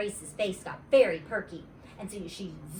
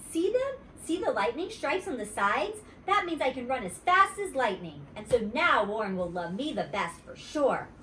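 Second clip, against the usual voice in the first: put-on bragging girl; 3 semitones higher than usual. Grace bragging.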